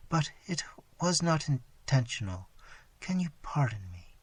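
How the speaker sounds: soft, failing last words, whisper at times; dying daughter begging forgiveness, soft and faint. Acted. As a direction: speak on the last breath.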